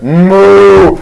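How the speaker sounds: long imitated moo; cow moo. Betsy the cow answers the milk request, mooing. Cow's reply in the story.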